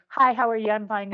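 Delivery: quick run-together hi how are you; rushed greeting. Shown as a demonstration. Teacher showing a rushed greeting too fast to follow. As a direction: rattle it off too fast to lip read. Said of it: "if you're going".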